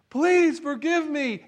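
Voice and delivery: mock-sob it like a fake apology; fake tearful plea. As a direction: servant mimicking his own fake begging. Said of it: "I put the tears on".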